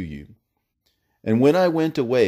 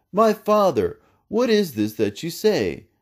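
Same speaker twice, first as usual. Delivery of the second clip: high, tearful plea; a son crying out, voice lifted high; weeping; 9 semitones higher than usual. A narrator's reading. Isaac weeping to his father at the news, high tearful plea.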